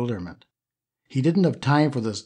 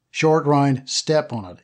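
urgent; 3 semitones higher than usual. Acted. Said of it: "Indy instructed urgently".

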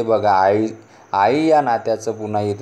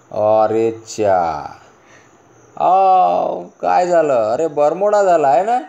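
high, loud startled cry of disbelief; astonished exclamation; 7 semitones higher, 4 dB louder, slower than usual. Acted. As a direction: gasp it out as if you can't believe the trousers. Family sees shortened trousers. (उंच आवाजात आश्चर्याचा उद्गार)

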